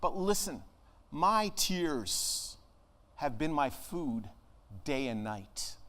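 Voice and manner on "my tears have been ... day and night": slow lament, sinking softer and lower; unhappy lament. Acted. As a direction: voice the grieving psalmist, fading to the end. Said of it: "Does he sound like a happy guy".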